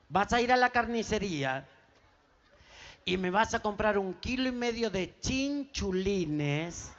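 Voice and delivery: mother's instructions. Acted. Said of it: "mirá dónde lo manda".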